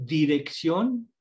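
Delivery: dirección said slowly with a single tapped r; slow demo of the tap in dirección; R sound demo. Shown as a demonstration. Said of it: "es otra forma de pronunciar la R". (dirección despacio, marcando la r suave)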